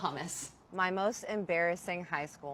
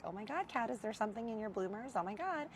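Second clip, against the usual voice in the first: mocking boys; 4 semitones higher, 7 dB quieter than usual. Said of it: "Boys were having such ... being like".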